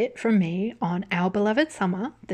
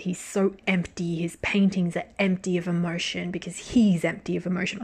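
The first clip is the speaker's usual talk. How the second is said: mock critic. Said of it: "a critic who says".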